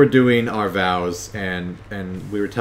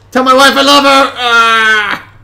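high desperate dying cry; wounded soldier gasping; 13 semitones higher, 11 dB louder than usual. Pretend. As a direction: yell like a soldier going down.

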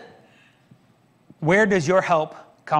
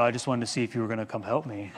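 laughing joke; 6 semitones lower, 8 dB quieter, faster than usual. Real, not acted. Joking reply, laughing.

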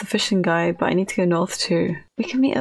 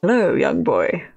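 creepy. Pretend. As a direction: greet like an unintended creep. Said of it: "I sound creepy".

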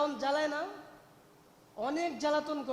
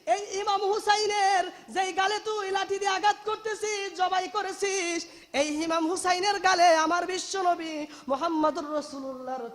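chanted cry of outrage; old man's outcry; 4 semitones higher, 4 dB louder than usual. Retold or imitated. Old man rebukes the traitors striking Husain's face, crying out. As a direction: call out the accusation in raised preaching voice. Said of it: "চিৎকার দিয়ে বলতেছে".

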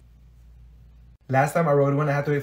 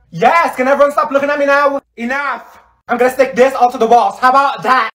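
high, raised-voice snapping; exasperated outburst; 7 semitones higher, 3 dB louder than usual. Acted. Pupil embarrassed by dropped gum, exasperated outburst. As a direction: make them back off, fed up.

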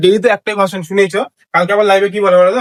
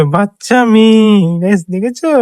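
slow, fond and tender; 3 semitones higher, much slower than usual. Real, not acted. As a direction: savour it lovingly. Fond remark about daughter.

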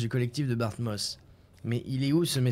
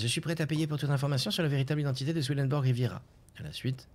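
normal talking voice

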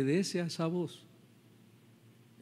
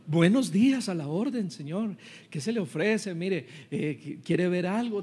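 lightly acted salesman greeting, higher and lilting; a hint of an eager salesman's higher voice; vendedor servicial; 4 semitones higher than usual. (vendedor servicial, imitado con tono agudo)

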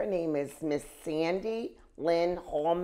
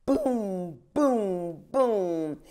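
drum beats; 2 semitones higher, much slower than usual. A narrator's reading. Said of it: "The drum kept talking".

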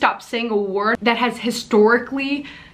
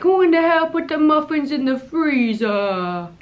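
higher, brash mock outrage; mock sassy video line; 6 semitones higher than usual. Imitating her video's brash outburst, mock sassy. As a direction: ham up the indignant question. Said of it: "And this one's like".

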